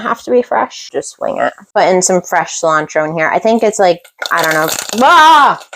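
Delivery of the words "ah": startled yelp. Real, not acted. Startled by sizzling pan.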